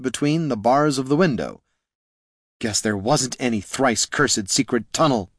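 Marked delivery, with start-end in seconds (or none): 2.6-5.3 sniping. Acted. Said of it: "sniped Loruna".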